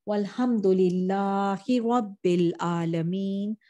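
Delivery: measured closing supplication in Arabic; Arabic prayer recitation. Real, not acted. Preacher closing the lesson with a prayer to Allah, recited.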